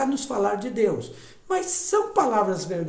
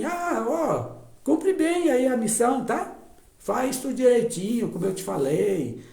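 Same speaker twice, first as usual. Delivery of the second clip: higher, brisk mock-bossy tone; bossy checking-up father; 4 semitones higher, 4 dB louder than usual. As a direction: hand out orders like a boss checking on a worker. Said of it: "o pai não diz assim". (pai mandão cobrando, em tom mais agudo e apressado)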